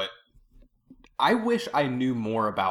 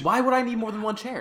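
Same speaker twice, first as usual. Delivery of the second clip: high laughing question; laughing disbelief; 12 semitones higher than usual. Real, not acted.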